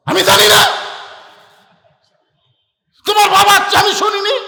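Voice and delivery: high, loud scolding wife; wife yelling, refusing to hear about his father; shrill angry wife. Acted. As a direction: snap back at him at full volume. Wife snaps at husband loudly.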